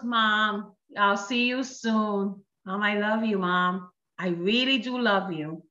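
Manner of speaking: slow, gentler take on the son; lightly voiced son, unhurried reassurance; son's gentle repeat. Son repeats promise to mom, lightly voiced, slow and gentle. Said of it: "He goes".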